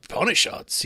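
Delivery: lightly put-on northern English accent. Coal miner urging a visitor to read the Upanishads, northern English accent. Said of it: "in this northern accent".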